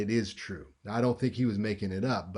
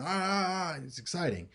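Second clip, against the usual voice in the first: excited squeals; 7 semitones higher than usual. Shown as a demonstration. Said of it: "your voice is gonna go up".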